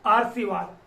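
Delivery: आरसीवाद said as written with र before स, आर-सी-वाद; wrong reading. Shown as a demonstration. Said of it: "क्या होगा?". (आरसीवाद गलत उच्चारण, आर-सी-वाद)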